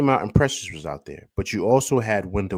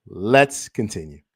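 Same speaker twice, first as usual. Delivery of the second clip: laughing; 3 semitones lower, slower than usual. Real, not acted. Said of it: "I'm getting a little emotional".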